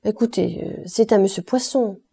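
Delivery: aimable, posée, sans forcer; présente-le gentiment à la table; voix aimable. Acted. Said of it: "d'une voix aimable". (d'une voix aimable, tranquille)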